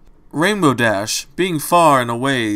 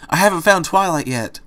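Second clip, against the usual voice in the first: higher, louder anxious call; cried out; 7 semitones higher, 3 dB louder than usual. A narrator's reading. Dash calling to friends entering the library, crying out. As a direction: call out in distress to the arrivals. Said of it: "Dash cried at them".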